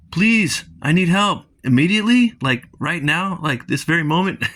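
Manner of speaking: hammed-up urgent plea; desperate pleading. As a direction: plead as if it cannot wait a second. Character pleads urgently for help.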